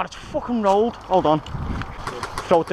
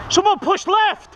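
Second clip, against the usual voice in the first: higher, slower, more urgent shout; 11 semitones higher, slower than usual. Real, not acted. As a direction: push the order harder. Repeated louder call.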